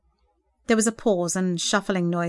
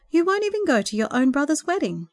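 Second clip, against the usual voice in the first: higher-pitched exasperated plea; despairing; 7 semitones higher than usual. A narrator's reading. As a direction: reproach a brother-like teen in mild despair. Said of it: "remarked despairingly to the lanky teenage James".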